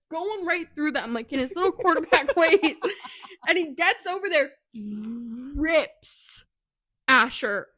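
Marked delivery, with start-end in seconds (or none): 1.7-7.7 higher, louder, breaking into laughter; can't get the name out for laughing; laughing fit. Real, not acted. Reading the story to friends, losing the name, laughing hard. Reader loses place, laughing.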